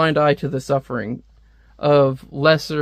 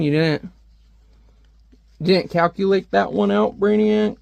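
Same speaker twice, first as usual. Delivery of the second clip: mocking rant; 4 semitones higher than usual. Real, not acted. Mocking Brainiac's big intelligence.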